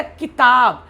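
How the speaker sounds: किताब with short 'ki' and long 'taab'; correct pronunciation. Shown as a demonstration. Teacher gives the correct pronunciation, किताब with short 'ki'. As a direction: say किताब with a brief first vowel. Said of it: "जो सही उच्चारण है".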